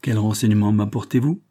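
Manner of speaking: fatherly and kind, asking gently; a light touch of paternal warmth; kindly voice. Acted. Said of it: "demanda-t-il de sa bonne voix".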